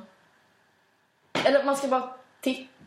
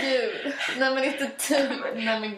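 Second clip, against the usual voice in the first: laughing mock rejection; 3 semitones higher, 4 dB louder, slower than usual. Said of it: "så här".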